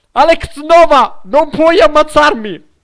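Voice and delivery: loud, high gloating taunt; taunting a rival gamer. Real, not acted. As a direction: rub it in the enemy's face. Taunting enemy player.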